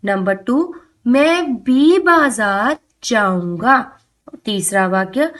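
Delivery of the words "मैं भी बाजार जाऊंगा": slow, with भी pressed hard; stress on भी. Shown as a demonstration. Teacher to children, slow, stressing भी. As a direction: lean on भी to show its force. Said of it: "बलपूर्वक कहा गया है".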